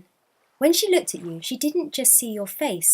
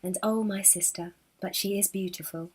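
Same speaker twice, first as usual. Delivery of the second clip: smiling kindly; 5 dB quieter than usual. Acted. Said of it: "smiling kindly".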